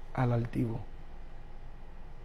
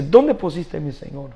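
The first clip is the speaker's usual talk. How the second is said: rising to a louder cry on the second question; Mary's anguished plea; 3 semitones higher, 7 dB louder than usual. Retold or imitated. Preacher voicing Mary asking where her Lord is, anguished cry. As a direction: plead louder and higher as Mary at the tomb. Mary searching for Jesus' body.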